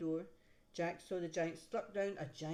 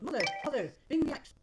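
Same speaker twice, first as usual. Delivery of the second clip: high, loud urgent yell; 8 semitones higher, 9 dB louder, faster than usual. Acted. Jack yelling to mother while climbing down, high urgent shout. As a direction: shout down the beanstalk for help. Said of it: "he yelled".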